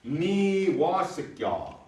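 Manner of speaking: "ni wa sikya" spoken slowly, syllable by syllable; slow teaching model of "ni wa sikya"; careful example. Shown as a demonstration. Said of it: "So if I put".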